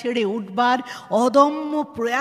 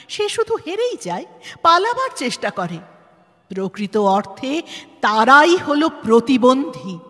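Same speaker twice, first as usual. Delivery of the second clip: forceful; 7 dB louder than usual. Acted. Forceful lecture on disability.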